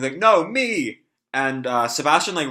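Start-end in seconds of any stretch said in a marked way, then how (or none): 0.2-1.0 much higher and louder little cry; a hint of a pushy underling; eager underling. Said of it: "one of his underlings".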